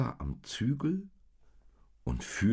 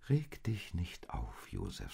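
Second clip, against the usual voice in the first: soothing; 6 dB quieter than usual. Acted. Maria calms worried Josef.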